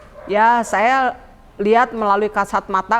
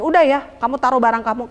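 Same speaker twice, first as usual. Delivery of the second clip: higher, quick imitated warning; warning hostess; 4 semitones higher, 3 dB louder, faster than usual. Hostess instructs the new lodger, brisk imitated warning. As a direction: briskly mimic a woman laying down rules. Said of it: "dia wanti-wanti begini".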